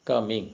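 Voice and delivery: "coming" split into two units, co... ming; syllable breaks. Shown as a demonstration. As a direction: say "coming" with a little stop between the syllables. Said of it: "ഇടയ്ക്ക് പോസ്".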